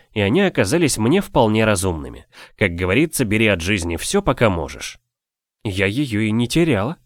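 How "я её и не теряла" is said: soft hint. A narrator's reading. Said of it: "мягко намекнула".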